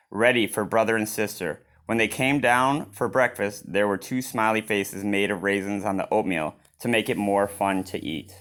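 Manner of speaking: gentle read-aloud storytelling; story narration. A narrator's reading. Reader narrating a picture book to children, gently. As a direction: read it like bedtime to kids.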